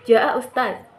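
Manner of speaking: "Jaa Ustaz" bernada sedang, normal; nada sedang. Shown as a demonstration. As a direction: ucapkan "Jaa Ustaz" sedikit naik dari nada rendah. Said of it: "sedikit lebih naik dari nada turun". ("Jaa Ustaz" dengan nada awal pembicaraan)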